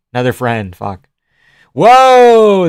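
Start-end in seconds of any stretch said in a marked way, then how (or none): 1.7-2.7 sudden loud, high gasp of surprise; real surprise. Real, not acted. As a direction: blurt it out, caught off guard. Reacting live to a fight.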